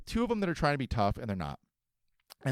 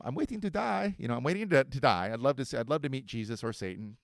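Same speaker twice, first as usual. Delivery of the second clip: put-on old man quote. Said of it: "the old man in the Good Morning Vietnam".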